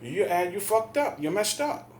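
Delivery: high-pitched, heated accusation; worked-up scolding, pitched high; retold angry telling-off. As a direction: re-enact chewing him out. Retold confrontation with the man.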